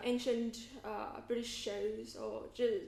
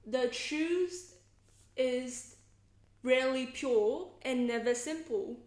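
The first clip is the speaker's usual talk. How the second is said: deliberate, stagey posh British delivery with pauses; posh British theatre accent; 4 dB louder, slower than usual. Shown as a demonstration. Actor shows a favorite line from the play, posh British accent. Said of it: "show you in the posh British theatre accent".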